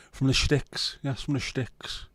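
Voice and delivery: lightly put-on rural Irish accent; Irish bumpkin accent. Streamer echoing a viewer's phrase, Irish bumpkin accent. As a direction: give "Sticks" an Irish "shticks". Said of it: "That's Irish bumpkins".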